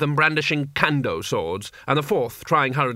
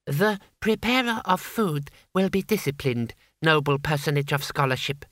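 put-on courtly boy monarch passing sentence; imperious boy Emperor. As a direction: pronounce judgment as a lofty young emperor.

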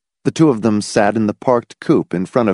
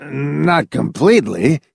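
eager objection in a pitched-up character voice; eager, stuttering; 4 semitones higher than usual. A narrator's reading. McFife corrects Miss Rice, eager and faltering. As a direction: jump in hopefully, voice higher. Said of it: "in an eager, stuttering voice".

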